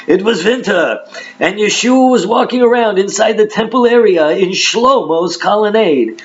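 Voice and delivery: put-on high, singsong old Jewish accent. Preacher rereading the Hanukkah verse, old Jewish accent. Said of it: "do the old Jewish accent".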